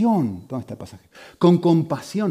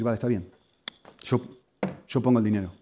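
soft, lower, meek concession; 5 semitones lower, 8 dB quieter, faster than usual. Acted. Yielding to an enemy and offering to pay, meek. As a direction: give in gently without resisting. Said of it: "sino con una actitud mansa".

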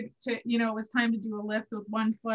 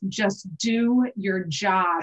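slow, stern self-command, barely voiced; a tired dancer steeling herself with a slow stern mutter; stern whisper to self; 2 semitones lower, much slower than usual. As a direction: mutter it sternly to yourself, slowly. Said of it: "And I whispered to myself".

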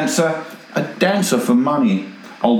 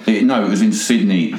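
usual speaking voice

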